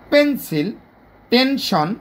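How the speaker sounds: "পেন্সিল, টেনশন" each broken into two beats; two-beat syllables. Shown as a demonstration. Teacher showing disyllables, "পেন্সিল, টেনশন" each in two pushes. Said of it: "দুইটা ধাক্কায় এটা উচ্চারিত হয়েছে".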